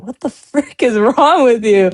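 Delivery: laughing through it in disbelief. Retold or imitated. Retelling his reply to the mall vendor, laughing in disbelief. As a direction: laugh mid-question, can't believe it.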